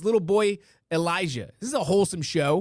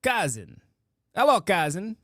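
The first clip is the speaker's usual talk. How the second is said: put-on Borat accent. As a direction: imitate a Borat accent lightly. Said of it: "talk to each other in Borat accent".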